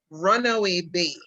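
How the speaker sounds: "Runaway Bay" with the beat on Run; stress on Runaway. Shown as a demonstration. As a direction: say "Runaway Bay" with the first syllable strong. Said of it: "which is how I would say it".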